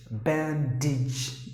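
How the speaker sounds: BANDAGE split as BAN-DIJ; model pronunciation. Shown as a demonstration. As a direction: softly spell out BANDAGE in two syllables. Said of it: "how you have to pronounce".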